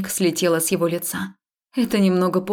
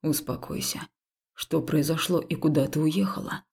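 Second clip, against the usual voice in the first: quiet calming; 3 semitones lower, 6 dB quieter than usual. Acted. Haul calms frightened heroine.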